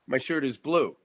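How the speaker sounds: flat repeating back and forth; Meisner repetition exercise. Shown as a demonstration. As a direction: repeat the line back, listening to your partner. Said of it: "let's do one right now".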